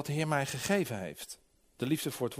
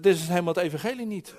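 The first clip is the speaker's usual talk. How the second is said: raised-voice protest, quick, only mildly shouted; retold shout; 4 dB louder, faster than usual. Preacher retells standing up against the man preaching, mildly shouted. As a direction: call it out as a recalled objection. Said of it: "ik stond op en ik schreeuwde".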